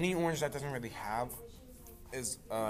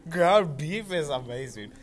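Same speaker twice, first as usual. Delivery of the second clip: excited; 4 semitones higher, 8 dB louder, slower than usual. Real, not acted. Gushing about ground beef.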